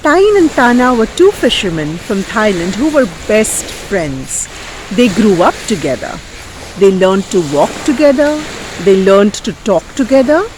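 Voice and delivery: animated, lilting storyteller; lively folk tale telling; story narration for children. Acted. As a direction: tell it with big swoops on key words.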